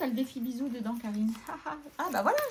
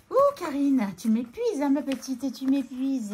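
louder playful groan at herself; hammed-up self-scolding, louder; mock exasperation; 3 semitones higher, 8 dB louder than usual. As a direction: tease yourself like a tired aunt. Scolds herself again, jokingly.

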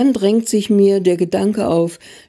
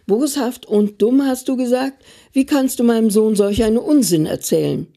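higher, faster indignant outcry; angry shout; 3 semitones higher than usual. Retold or imitated. Mother yells at Opa about his words to her son. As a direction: hurl his words back at him, quickly. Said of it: "Ich schrie so laut".

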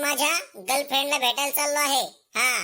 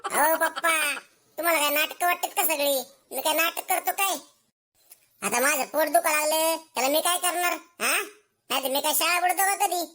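higher, pleading son feigning innocence; whining protest; 4 semitones higher than usual. Acted. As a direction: protest like a kid caught lying. (निरागसपणाचा आव आणत तक्रार करणारा मुलगा)

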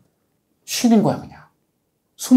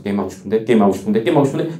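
wistful student; 5 semitones lower, faster than usual. Acted. Student craving games while studying.

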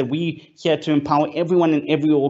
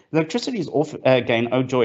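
sarcastic; 2 semitones lower than usual. Shown as a demonstration. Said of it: "and that's sarcasm".

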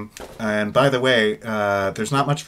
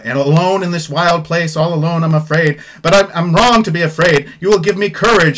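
grand theatrical recitation of the aria's words; dramatic reading; 6 semitones higher, 9 dB louder than usual. Shown as a demonstration. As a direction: read it like an operatic heroine in peril. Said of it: "Okay, big dramatic next section".

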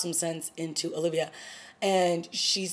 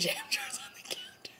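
laughing; 12 dB quieter than usual. Real, not acted. Laughing at jam everywhere.

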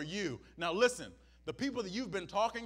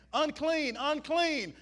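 mock cry; 6 semitones higher, 4 dB louder, slower than usual. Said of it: "people that were saying".

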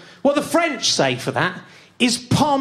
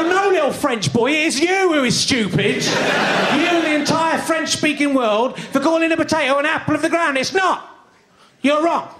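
raised-pitch mock outrage; indignant scolding; 4 semitones higher than usual. Comic scolding a French schoolboy in class, mock indignant. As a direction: burst in and put the child right.

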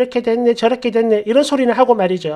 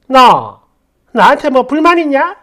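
a sharp, louder challenge; mock angry confrontation; 4 dB louder than usual. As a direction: imitate the mother-in-law scolding. Mother-in-law confronting her.

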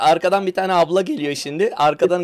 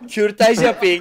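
higher-pitched mock announcement; mock slogan call; 4 semitones higher, much slower than usual. Repeating the slogan to amuse friends, mock call.

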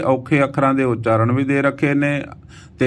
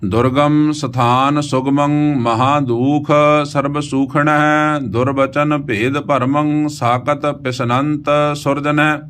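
slow, sustained Gurbani reading; measured verse chant on an even pitch; scripture recitation; 2 semitones higher, slower than usual. Acted. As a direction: recite with long drawn vowels.

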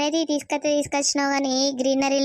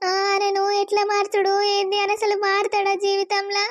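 tearful; 4 semitones higher than usual. Acted. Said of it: "నువ్వు ఎందుకు ఏడుతున్నావే?".

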